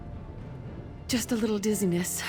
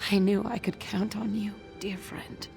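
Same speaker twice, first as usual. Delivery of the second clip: grateful, weary warmth; 4 dB quieter than usual. Acted. Weak woman thanks her trusted friend.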